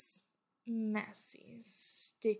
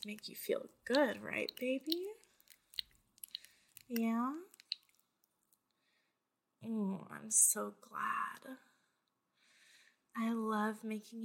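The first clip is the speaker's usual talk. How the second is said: sweet nothings; 4 dB quieter than usual. Acted. Loving reassurance to listener.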